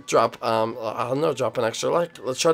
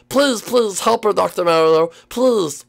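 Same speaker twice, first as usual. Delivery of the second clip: play-acted pleading; 3 semitones higher, slower than usual. Begs the doctor for help.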